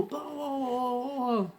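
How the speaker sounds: dismissive blah blah. Retold or imitated. Mocking her rant.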